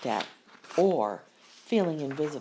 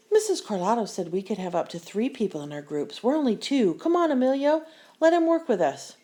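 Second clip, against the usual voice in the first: rising higher and louder into a plea; pleading; 4 semitones higher, 4 dB louder, faster than usual. Acted. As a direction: coax Emilio, more urgent each line. Pleading with Emilio for Brian.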